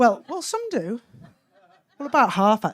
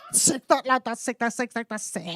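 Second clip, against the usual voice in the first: rapid admiring mumble fading away; awestruck schoolboys; 2 semitones lower, 7 dB quieter than usual. Acted. Classmates admiring the cock of year nine, fading awed chant. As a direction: murmur approval like impressed mates. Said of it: "they think he's the fucking bollocks".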